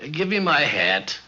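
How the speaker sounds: lightly imitated English vowels, short "hat" and broad "bath"; a hint of an Englishman's long A in "bath"; English accent. Canadian editor mimicking how an Englishman says hat and bath, light English accent. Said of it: "an Englishman would say".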